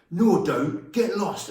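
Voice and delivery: a mock shout of defiance; retold angry outburst. Boy snapping back at his teasing classmate, mock-angry. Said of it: "He swore at the top of his voice".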